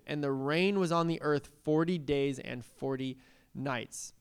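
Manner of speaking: measured phrases with deliberate pauses; scripture reading. Acted. Preacher reading Noah's flood account, measured recitation. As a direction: read the verses out clearly to a congregation.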